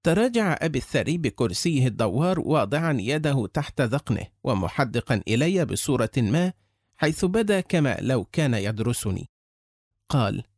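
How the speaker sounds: plain reading voice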